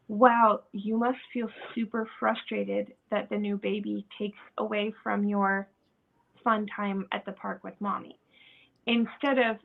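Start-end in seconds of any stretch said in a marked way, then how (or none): 0.1-8.2 softer, lower, understanding; name the feeling gently; gentle empathy. Acted. Parent to child missing park time, gentle empathy.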